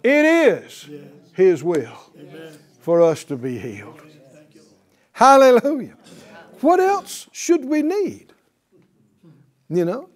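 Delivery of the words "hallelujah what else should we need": fervent preaching. Real, not acted. Preaching at full force.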